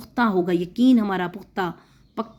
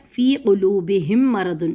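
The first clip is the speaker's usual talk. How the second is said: slow recited Quran verse; measured tajweed reading; verse recitation; much slower than usual. Acted. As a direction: chant the verse steadily. Recites verse before translating.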